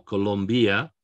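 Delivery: "Colombia" with the I as a separate ee; wrong pronunciation. Shown as a demonstration. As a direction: say "Colombia" as co-lom-BEE-a, rising. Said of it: "It's not Colombia".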